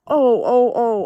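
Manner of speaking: high, loud fake dismay; hammed-up imitation of mom watching news; mock-distressed sighs. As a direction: imitate a showy empathetic gasp. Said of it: "all torn up".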